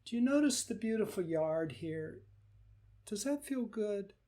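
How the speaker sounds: soft, coaxing invitation; gentle guiding voice. Shown as a demonstration. Teacher guiding the hurt part to the yard, soft and coaxing. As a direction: lead them softly toward something nice. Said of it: "You let the hurt rock gently and say".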